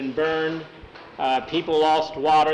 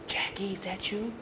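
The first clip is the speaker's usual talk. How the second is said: put-on little girl; 5 semitones higher, 10 dB quieter than usual. A narrator's reading. Girl hiding in mud.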